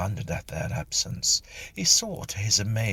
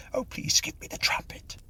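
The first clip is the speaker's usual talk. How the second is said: high pleading whisper; miserable whisper; 3 dB quieter than usual. Acted. The caught medium begging for the trumpet, miserable whisper. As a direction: beg under your breath. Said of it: "whispered the miserable medium".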